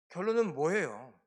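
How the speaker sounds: normal talking voice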